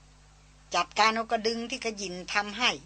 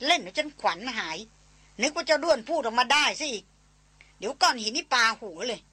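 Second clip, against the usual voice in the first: a light half-joking telling-off; soft scolding; 2 semitones higher than usual. Acted. Darin scolds Chayan for startling her, mildly. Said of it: "ตวาดแวดเบาๆ".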